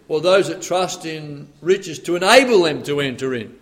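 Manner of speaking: preacher lands hard on "enable" for listeners; stress on enable. Shown as a demonstration. "to enable them" with "enable" punched. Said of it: "it depends where you put the emphasis there".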